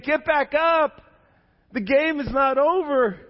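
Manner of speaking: loud high crowd call; rally him like a whole family; crowd cheering. Retold or imitated. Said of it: "they were all saying".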